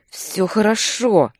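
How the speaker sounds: strained, slow forced reply; squeezed through teeth. A narrator's reading. Thug in pain giving in, forced through teeth. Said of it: "выдавил сквозь стиснутые зубы".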